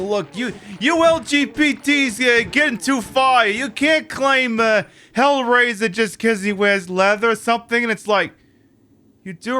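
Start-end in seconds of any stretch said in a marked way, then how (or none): 0.0-7.8 mocking commenter. Streamer mocking a smug commenter, in a high whine. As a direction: sneer it like a smug troll. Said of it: "I think someone said".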